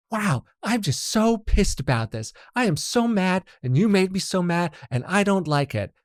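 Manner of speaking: high, loud, slow mock fury; pantomimed anger. Pantomiming a partner who is furious, high and slow. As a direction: overact being mad, slowly. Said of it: "to pantomime you pantomiming us".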